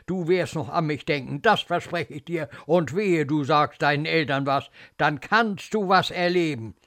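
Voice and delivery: menacing nurse's warning; wrathful, emphatic scolding; angry threat. Acted. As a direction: warn the child against telling. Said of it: "Ekel, Zorn".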